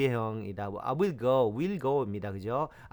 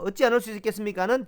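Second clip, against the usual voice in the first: whisper; 8 semitones higher, 3 dB louder, faster than usual. Real, not acted. Quick aside while teaching.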